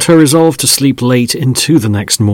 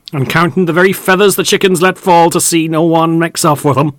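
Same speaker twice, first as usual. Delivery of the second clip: meaningly; 6 semitones higher, 4 dB louder than usual. Acted. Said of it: "said another voice meaningly".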